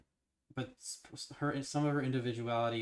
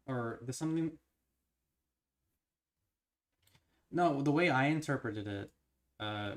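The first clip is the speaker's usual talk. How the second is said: fast excited theorizing; 2 semitones higher than usual. Real, not acted. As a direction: talk it out, buzzing with excitement.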